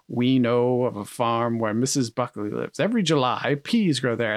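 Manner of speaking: lightly voiced pompous commercial narrator; Orson Welles. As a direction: read the ad with a hint of grandeur. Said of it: "So he's like".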